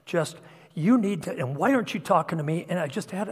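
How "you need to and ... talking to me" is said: retold overbearing father. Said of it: "standing over her and my two hundred pound self".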